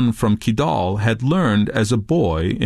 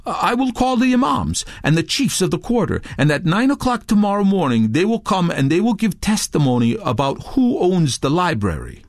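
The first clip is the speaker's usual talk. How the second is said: higher-pitched promise; improvising; 7 semitones higher than usual. A narrator's reading. Touré promising Redbeard witnesses, improvising. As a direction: make up a plan as you go.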